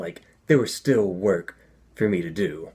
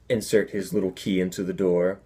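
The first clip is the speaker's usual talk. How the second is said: usual speaking voice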